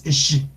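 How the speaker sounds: isolated "sh" for the letter X; teacher sounding out "sh"; demonstrated X sound. Shown as a demonstration. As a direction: model a clean "sh". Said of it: "Siempre que vean X".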